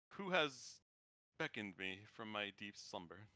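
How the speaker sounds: soft, low ghostly whisper of a spirit; ethereal ghostly voice. Acted. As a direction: speak like a faint ghost from the deep. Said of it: "a very ethereal, ghostly voice goes".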